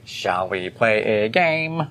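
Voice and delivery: slow menacing doll voice; too calm creepy doll. Pretend. Saw puppet line, slow, low.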